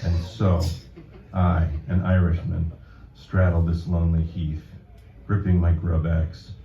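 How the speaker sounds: deliberate deadpan delivery, phrase by phrase; poetry reading. Acted. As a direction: read a mock-solemn poem to an audience. Reads own poem to audience.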